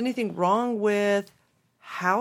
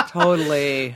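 laughing; 4 semitones lower, 8 dB louder than usual. Real, not acted. Still laughing after letter.

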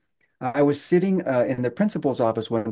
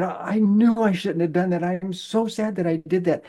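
put-on tearful kid; 5 semitones higher than usual. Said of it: "he was starting to cry".

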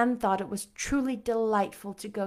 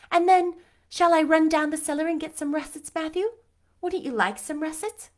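put-on higher, eager girl voice; a lively girl coaxing Matthew; Anne; 4 semitones higher, 4 dB louder than usual.

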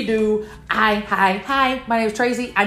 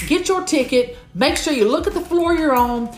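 helpful friend; 3 semitones higher than usual. Acted. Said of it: "them old school directions".

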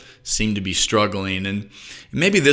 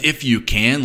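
mildly affronted, slightly raised; mock angry challenge; 3 semitones higher than usual. Shown as a demonstration. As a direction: challenge the doubter with a touch of anger. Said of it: "said in an angry voice with angry eyes".

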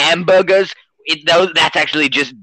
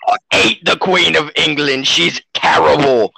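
mock Australian accent. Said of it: "he's Australian, if you can't tell".

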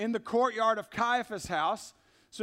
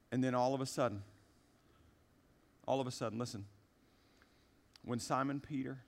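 soft, low, drawn-in reading voice; hushed scripture reading; 10 semitones lower, 7 dB quieter than usual. Acted. Pastor to congregation at the story's turn, hushed and low. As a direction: pull them in with a hushed telling.

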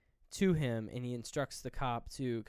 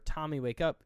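retold yell; 4 semitones higher, 4 dB louder than usual. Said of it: "starts yelling for Tommy".

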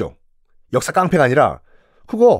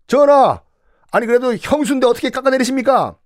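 high, quick earnest plea; pleading minister; 9 semitones higher than usual. Retold or imitated. Kim Yuk urging King Hyojong, high and pleading. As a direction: beg the king to reconsider.

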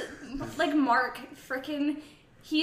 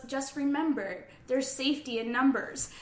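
deadpan; 6 dB quieter than usual. Retold or imitated. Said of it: "just deadpan delivery too".

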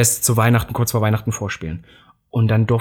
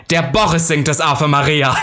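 quoted catchphrase; 2 semitones higher than usual. Retold or imitated. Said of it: "diesen berühmten Spruch".

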